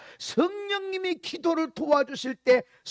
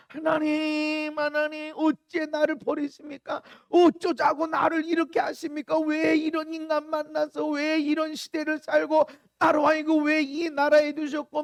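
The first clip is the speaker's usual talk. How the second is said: crying out to God. Acted. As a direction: cry out in protest, drawing out the first call. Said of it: "예수님도 크게 소리를 질렀다". (하나님께 부르짖는 목소리)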